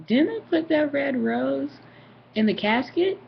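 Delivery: slow, rising disbelief; retold bewildered question; puzzled question. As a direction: puzzle it out slowly, pitch lifted. Puzzled family reaction to the rose.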